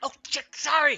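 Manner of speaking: screaming. Voicing a character who cuts a finger on a spike: screaming. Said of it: "she screams".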